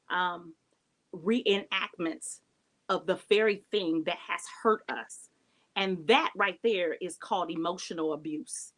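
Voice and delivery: deliberate, with long pauses between phrases; measured, unhurried teaching; taking time. Real, not acted. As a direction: take your time, let each phrase land. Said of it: "let me take my time with this".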